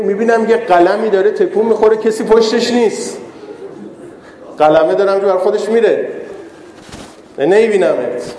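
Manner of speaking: imitating a sly jibe, lightly done; mild mock taunt. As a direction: tease with a touch of feigned puzzlement. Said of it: "به طعنه برمیگرده، میگه که". (ادای طعنه زدن، ملایم)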